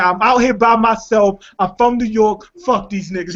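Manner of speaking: slowed-down opening in a mimicked New York accent; imitated New York accent. Retelling a New Yorker's words to friends, imitated New York accent. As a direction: quote a man with a heavy New York accent. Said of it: "heavy New York accent in".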